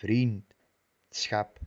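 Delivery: vriendschap broken slowly after the ds; wrong split. Shown as a demonstration. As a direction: show the wrong break in vriendschap. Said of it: "no como".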